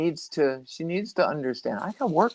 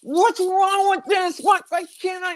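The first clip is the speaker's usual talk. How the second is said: high, slow whiny frustration; frustrated child; 3 dB louder than usual. Retold or imitated. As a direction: play a fed-up nine-year-old fighting with a fan. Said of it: "And she went".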